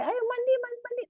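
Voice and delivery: high, lilting call to bathe; mother singsonging a child toward the bath; singsong coaxing. Acted. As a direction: coax the child along, sing it. Parent calling child to bathe.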